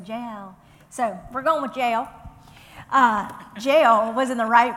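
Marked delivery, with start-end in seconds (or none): 0.0-0.5 "J L" as two syllables, like letter names; careful pronunciation. Shown as a demonstration. Teacher trying the name she can't say, "J L" in two syllables. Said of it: "I just can't say".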